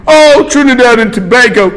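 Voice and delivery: lightly mocking British accent; a hint of boozy British accent; drunk British students. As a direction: imitate a tipsy British student. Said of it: "two drunk students say".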